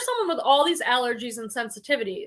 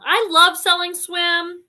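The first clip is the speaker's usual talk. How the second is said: higher, slower, with eager emphasis; enthusiastic agreement; 5 semitones higher, 4 dB louder, slower than usual. Real, not acted. Host echoes a viewer's comment, enthusiastic agreement. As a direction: savour it like a favourite line.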